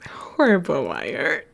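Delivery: conspiratorial whisper. Real, not acted. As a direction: let us in on a secret. Whispered aside.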